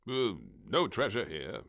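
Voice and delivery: mumbling admiral. Acted. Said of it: "the admiral mumbled".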